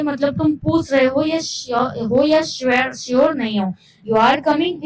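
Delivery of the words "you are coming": coming lifts up; unsure question, up on coming; rising tune. Shown as a demonstration. Teacher showing rising tone again. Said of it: "इस तरीके से".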